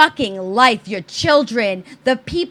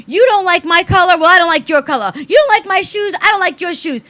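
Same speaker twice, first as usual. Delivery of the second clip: petty tit-for-tat; 5 semitones higher, 5 dB louder, faster than usual. Retold or imitated. Mocking petty bickering citizens.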